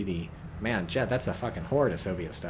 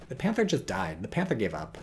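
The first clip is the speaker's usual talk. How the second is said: normal talking voice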